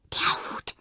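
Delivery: breathless whisper of an eager discovery; excited whisper. Acted. Fred whispers to Jana on spotting the hat, excited. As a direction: hiss it so only Jana hears. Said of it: "flüstert Fred aufgeregt".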